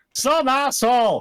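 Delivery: shouting. Answering who the stranger arguing with them is: yelling. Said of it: "Why are you yelling?".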